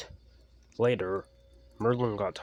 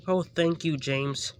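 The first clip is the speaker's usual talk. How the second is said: high, loud thankful cheer; relieved little engine thanks his friend; grateful Percy; 8 semitones higher, 6 dB louder than usual. A narrator's reading. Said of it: "Percy whistled".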